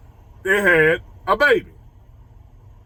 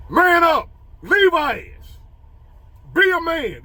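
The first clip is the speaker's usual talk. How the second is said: scolding mom; 9 semitones higher, slower than usual. Retold or imitated. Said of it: "My mama said".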